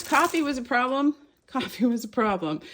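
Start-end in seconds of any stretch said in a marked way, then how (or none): 0.0-1.1 high rising take. Shown as a demonstration. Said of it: "repeats the line, second time lower".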